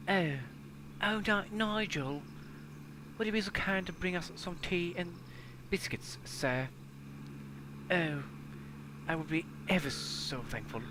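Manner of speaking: high, prim upper-class lady; high mock-genteel lady asking for tea; posh lady voice. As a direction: play a fussy posh lady calling the butler.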